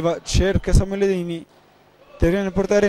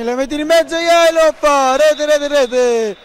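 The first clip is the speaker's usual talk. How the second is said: higher, building goal call; breathless italian goal commentary; 4 semitones higher than usual. Real, not acted. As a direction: lift the voice as the ball goes in. Live goal call in match.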